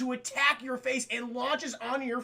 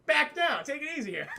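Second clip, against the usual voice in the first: laughing scold; 3 semitones higher than usual. Real, not acted. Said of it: "I'm like".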